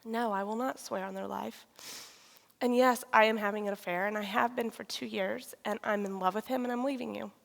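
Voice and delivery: soft, measured firmness; quiet confession. Retold or imitated. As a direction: retell a hard admission softly and steadily. Retelling confession after a deep breath.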